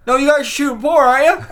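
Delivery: high, loud imitation of an eager stranger; insistent onlooker. Onlooker disbelieving the crew's denial, insistent mock voice. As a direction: press the point, mock-excited.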